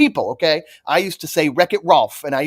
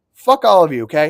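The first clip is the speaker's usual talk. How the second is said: plain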